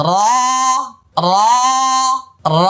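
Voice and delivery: র with the tongue tip on the palate; heavy ra. Shown as a demonstration. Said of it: "আমি আবার বলছি".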